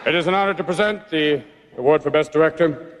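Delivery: deep announcer voice. Acted. Low mock-solemn presenter voice.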